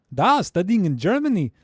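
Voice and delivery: half-hearted mock German accent; clumsy stab at German-accented English; bad German accent. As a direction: attempt a German accent and give up. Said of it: "I can't do a German accent".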